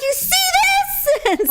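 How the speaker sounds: high, slow, drawn-out taunt; a hammed-up dare; mock defiant taunt. Mom retelling flipping off the honking driver, slow mock taunt. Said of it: "and I'm like".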